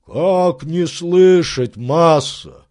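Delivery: complain, wounded; aggrieved servant. Acted. Servant complaining to his master about the scolding.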